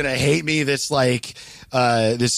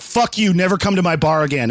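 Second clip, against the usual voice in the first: mock-furious telling-off, slightly raised; higher, punchy retold rebuff; retold angry outburst; 3 semitones higher than usual. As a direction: imitate a bar owner snapping at a caller. Bar owner retold telling callers off.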